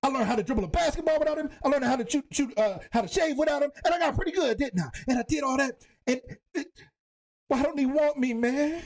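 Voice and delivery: high, fast, rising toward tears; quoting Will's breakdown. Retold or imitated. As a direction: build from defiant to breaking. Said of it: "He was like".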